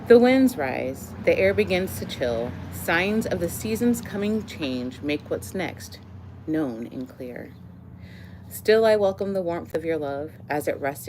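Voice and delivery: measured poetry recital, phrases set apart by pauses; poem reading. Acted. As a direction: lift each line's opening, let its end settle. Reads second poem aloud.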